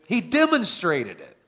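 normal talking voice

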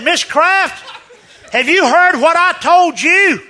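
high, loud question for failing ears; retold shouting. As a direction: holler it so she can hear. Shouting at hard-of-hearing woman.

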